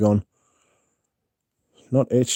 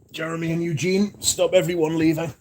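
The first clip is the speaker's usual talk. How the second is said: calling out high; 7 semitones higher than usual. Real, not acted. Calling to chat mods before leaving.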